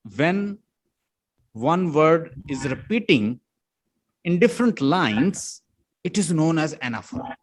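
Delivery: very slow, word by word for note-taking; slow dictation; dictation pace. Shown as a demonstration. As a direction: dictate it slowly so students can write. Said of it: "लिख लें".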